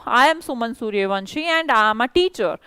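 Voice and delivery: slow, clear teacher model sentence. Shown as a demonstration. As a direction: say each word slowly and clearly. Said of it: "जैसे मैं बोलूँ". (धीमे और साफ़ बोला गया वाक्य)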